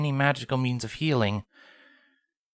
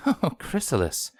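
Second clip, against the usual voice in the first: ominous laugh; 4 semitones higher than usual. Acted. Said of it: "it wasn't a smile any pony would ever want to see".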